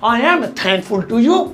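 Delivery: slow, measured English phrase; slow model phrase. Shown as a demonstration. Teacher introducing a thank-you phrase to learners, slow and measured. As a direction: say it slowly for learners.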